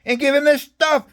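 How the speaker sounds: the general questioning him before the colonel, high and slow; imitating the general. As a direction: draw the question out in a squeaky mock general. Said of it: "He goes".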